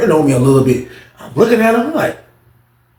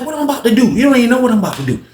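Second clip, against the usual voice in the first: tag; 8 semitones higher, faster than usual. Acted. Acts out his defensive comeback.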